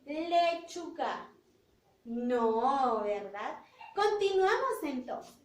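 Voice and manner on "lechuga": slow, musing repeat of lechuga; slow model word. Shown as a demonstration. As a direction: say lechuga slowly while thinking it over.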